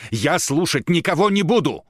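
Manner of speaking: high, loud refusal; shouting. Acted. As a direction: shout him down. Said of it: "кричала Татьяна".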